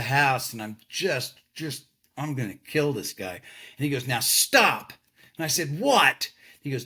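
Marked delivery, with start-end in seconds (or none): 4.1-4.9 a sharp, louder "now stop"; firm command. Retold or imitated. 5.8-6.3 a higher, louder, exasperated "what?"; irritated what. Retold or imitated. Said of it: "by this time I'm furious".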